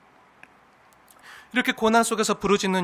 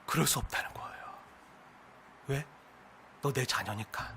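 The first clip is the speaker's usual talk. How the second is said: much softer, lower whispered reply; hushed; 8 semitones lower, 15 dB quieter than usual. Acted. God answering his pleading child, hushed. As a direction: answer gently under the breath.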